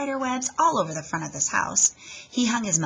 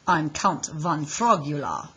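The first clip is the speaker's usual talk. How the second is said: lightly voiced vampire count; 3 semitones lower, 3 dB louder than usual. Froggy in vampire character.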